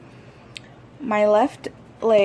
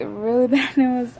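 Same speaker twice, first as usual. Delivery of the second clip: a laugh breaking into the bad news; 2 semitones higher than usual. Real, not acted.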